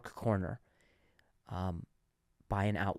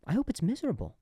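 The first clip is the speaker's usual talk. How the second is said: put-on bitter old man voice; 9 semitones higher, faster than usual. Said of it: "say to them".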